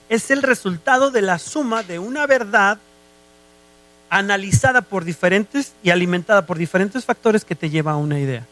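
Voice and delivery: measured, spelled-out explanation; deliberately slow. Shown as a demonstration. Preacher defining reasoning for the congregation, slowly. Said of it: "se lo voy a decir despacio".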